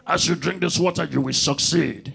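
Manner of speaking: low solemn preacher voice imitating the pastor; pastor's prayer. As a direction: intone it like a pastor blessing water.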